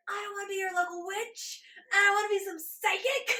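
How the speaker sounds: high, loud put-on whine of refusal; mock protest. Protesting being a psychic.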